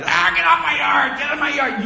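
high, loud mock old man yelling; cranky old man. Preacher plays an old man chasing kids off his yard, hammed-up yelling. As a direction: squawk it out like a grumpy old neighbour. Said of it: "Cranky old man".

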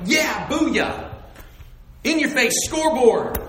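loud, high gloating taunt; playful victory yell; mock triumphant shout. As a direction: crow it like a pretend victor. Imagined triumphant taunt from cross.

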